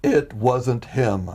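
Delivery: very slow, drawn-out gentle amusement; humor in the tone. Retold or imitated. The Lord answering a complaining man, humor in his tone. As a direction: stretch each word with a touch of humor. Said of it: "humor in this tone".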